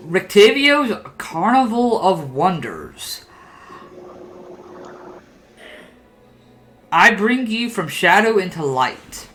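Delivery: lightly grand carnival billing, slow; wagon's slogan. Acted. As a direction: read out a showman's sign with measured flourish. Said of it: "What does your wagon say?".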